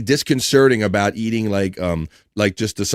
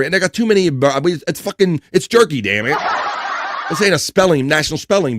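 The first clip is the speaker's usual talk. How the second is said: higher, fed-up outburst; mock exasperation; 4 semitones higher than usual. Real, not acted. Host stuck on the word's origin, comically exasperated. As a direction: give up on the pronunciations in comic frustration.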